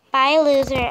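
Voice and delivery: snide goodbye. Pretend. Rude parting shot.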